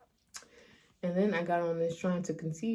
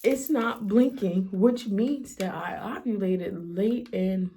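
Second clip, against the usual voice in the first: slow, louder, fighting back tears of relief; choked up; 2 semitones higher, 3 dB louder, slower than usual. Real, not acted. Vlogger reading a positive test to viewers, tearful. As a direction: let the relief break through slowly. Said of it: "I know I'm about to cry".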